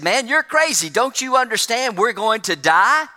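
he can't believe his friend is so calm; castaway panicking at his calm friend on the island; incredulous panic. Retold or imitated.

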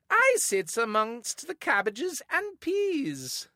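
very slow, high Cockney music-hall voice; drawn-out cheeky music-hall line; saucy old-timey accent. Pretend. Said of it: "you have to do the accent".

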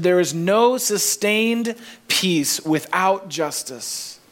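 each word slowed and weighted; deliberate quote of an author; slow quoted emphasis. Retold or imitated. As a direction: lay the quote down slowly and firmly. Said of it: "She said this".

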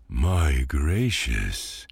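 slow, puffing exclamation; out of breath. Acted. Stout cabbage after the climb, out of breath. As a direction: gasp it out, winded. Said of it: "terribly out of breath".

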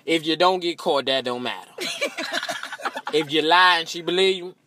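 normal talking voice

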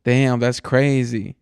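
mock phone scroller. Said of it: "looking at your phone and going".

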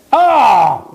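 loud, high drawn-out "oh!"; mock outcry. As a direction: cry out at your own bad pun. Mock reaction to own pun.

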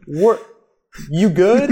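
high, loud mock call to a climber; shouting back. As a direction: holler a check-in from above. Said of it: "they're gonna shout back".

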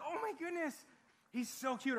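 lighter high swooning imitation; a hint of a girl with a crush; mock gushing girl. Preacher mimics a smitten girl, lightly high.

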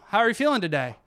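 a doctor cheerfully coaxing a mute patient, upbeat; bright coaxing doctor. Retold or imitated. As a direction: cheerfully coax a bored patient.

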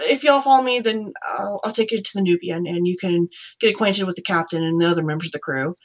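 half-orc with a Southern drawl; easygoing Southern-accented guide. Acted. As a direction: invite them along in a Southern drawl. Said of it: "gonna have a Southern drawl orc".

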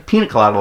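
PINA as plain "PEE-nuh"; everyday English pina. Shown as a demonstration. Storyteller corrects girlfriend, everyday "pee-nuh colada". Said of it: "like everybody else".

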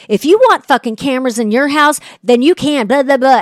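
retold flip-out. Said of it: "He immediately flips out".

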